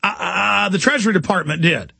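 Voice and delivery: imitating a flustered stammer; stuttering. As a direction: stumble over the first words. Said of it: "starts stuttering and says".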